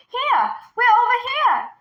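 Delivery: put-on high, loud children's call. A narrator's reading. Twins calling to their grandfather, loud and high. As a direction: shout to be found. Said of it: "together they called".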